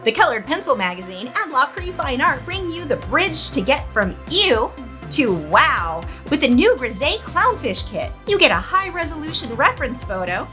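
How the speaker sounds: over-the-top TV ad pitch; infomercial. Acted. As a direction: sell it like a late-night infomercial. Parody infomercial read by S0.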